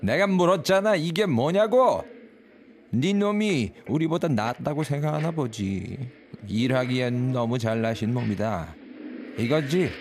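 high, loud furious scolding; angry shout. Acted. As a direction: yell at the prisoner. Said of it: "화가 나서 다시 다그치기 시작했다".

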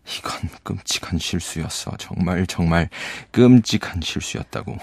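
hushed start, melodramatic misery; tragic grief. Acted. Gatsby alone with Nick, lamenting in bitter grief. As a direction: lament like the hero of a tragedy. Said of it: "비극의 주인공이 된 비통함을 그대로 드러냅니다".

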